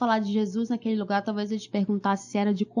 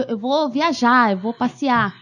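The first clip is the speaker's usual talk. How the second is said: higher, louder happy announcement; 4 semitones higher, 4 dB louder, slower than usual. Retold or imitated. Boy happily telling his friends he's off travelling, excited. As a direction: excitedly share travel news.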